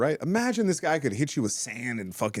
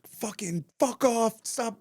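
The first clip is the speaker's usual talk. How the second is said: slow, higher-pitched fed-up protest; retold exasperation; 9 semitones higher, slower than usual. Man sitting on his attacker, drawn-out retold exasperation. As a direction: drag out the mock struggle.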